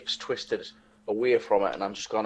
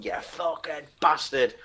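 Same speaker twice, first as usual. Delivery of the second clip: higher-pitched held-back shout; gruff battle insult without real volume; mock angry shout; 5 semitones higher, 3 dB quieter than usual. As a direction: act out shouting an insult mid-fight. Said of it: "I'm just shouting".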